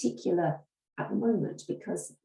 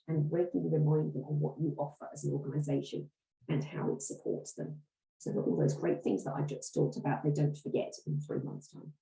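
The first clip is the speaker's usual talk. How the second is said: hoarse, strained voice; croaky voice. Real, not acted. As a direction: speak through a croaky throat. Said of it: "listening to my croaky voice".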